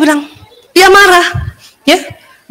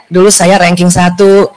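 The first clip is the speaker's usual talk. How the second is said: lower, slow, smug boast; boastful; 6 semitones lower than usual. Shown as a demonstration. A mother bragging about her ranking, smug and slow. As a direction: savour the brag slowly. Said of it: "itu baru sombong".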